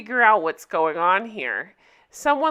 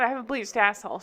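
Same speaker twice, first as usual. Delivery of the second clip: lighter, quicker imitated Southern accent; 4 dB quieter, faster than usual. Showing how the character says it, understated Southern accent. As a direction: toss it off with a mild Southern twang. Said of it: "she kinda says it like that".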